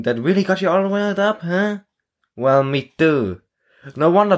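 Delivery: a cocky newcomer making friends; eager young soldier. Acted. Arthur greeting the new recruit, chummy and eager.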